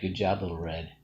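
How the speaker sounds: normal talking voice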